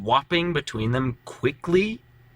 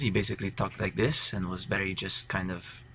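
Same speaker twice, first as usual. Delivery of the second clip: softer, lightly voiced character with a little Spanish feel; a hint of Spanish, kept soft; later character voice; 2 semitones lower, 7 dB quieter than usual. Shown as a demonstration. Player shows how the character ended up talking, soft and understated. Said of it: "by the time I ended".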